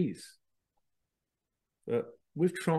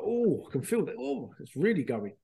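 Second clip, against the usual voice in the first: excited; 5 semitones higher than usual. Retold or imitated. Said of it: "And it's like".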